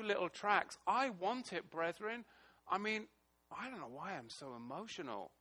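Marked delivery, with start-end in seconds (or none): 3.6-5.3 emotional. Real, not acted. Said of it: "I am emotional today".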